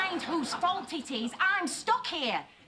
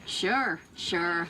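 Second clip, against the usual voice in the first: put-on American accent; 12 semitones lower than usual. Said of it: "American accent".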